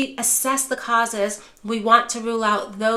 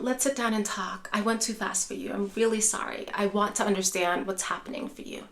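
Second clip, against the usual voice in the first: softer, gentle calming voice in the kitchen; calm and quiet; 6 dB quieter than usual. Shown as a demonstration. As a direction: soothe an upset parent quietly. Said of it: "maybe guide them into the kitchen".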